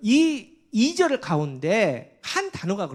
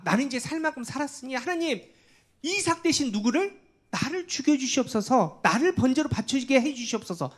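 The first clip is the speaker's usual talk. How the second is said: Abraham's voice raised high, begging God; pleading prayer; 6 semitones higher than usual. Acted. 목사가 아브라함의 기도를 연기. (높은 목소리로 간절히 애원하는 아브라함)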